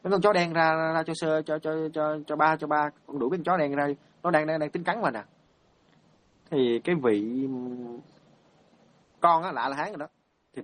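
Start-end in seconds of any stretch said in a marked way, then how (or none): 0.0-5.2 higher, stammering plea, no real shouting; mock panic, words tumbling over in repeats; imitated panicked cry. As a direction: act out a frightened old man's repeated cries. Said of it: "ông mới hét lên như vậy nè".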